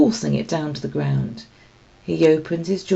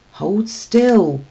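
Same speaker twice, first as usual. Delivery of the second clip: commanding; 5 semitones higher, 6 dB louder than usual. A narrator's reading. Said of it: "commanded a gravelly voice".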